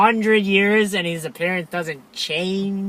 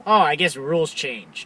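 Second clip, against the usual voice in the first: lower, offhand mock quote; casual; 5 semitones lower, 4 dB quieter than usual. Retelling hero facing cars on the ice, imitated casual shrug. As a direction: toss it off as if it hardly matters. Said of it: "All casual".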